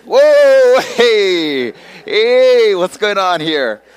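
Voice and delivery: loud, high-pitched startled alarm; freaking out. Retold or imitated. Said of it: "freaking out".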